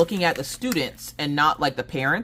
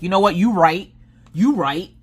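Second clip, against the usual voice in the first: amused concession; 6 semitones higher, 6 dB louder than usual. Retold or imitated. Conceding to the teacher's comeback.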